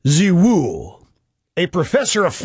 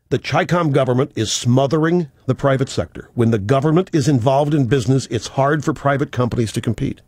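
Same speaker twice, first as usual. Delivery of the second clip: reading in disbelief; 7 semitones lower than usual. Retold or imitated. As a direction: read it again, stunned it's real. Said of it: "at a loss to express my incredulity".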